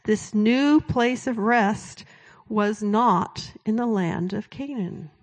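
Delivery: slow, weighty reading; scripture reading. Acted. Preacher reading verse eight slowly to the congregation. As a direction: read the verse slowly, stressing not. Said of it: "it says this".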